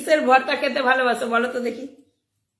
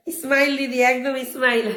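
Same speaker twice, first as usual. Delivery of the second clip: giggling over the name; words breaking into real laughter; laughing; slower than usual. Real, not acted. Host laughs at a viewer's name, giggling. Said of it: "হাসিটাকে আর control করতে পারলাম না".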